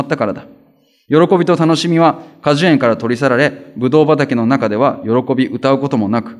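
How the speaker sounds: solemn reading of scripture. Acted. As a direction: read the verses out as scripture to the congregation. Reads Isaiah passage aloud.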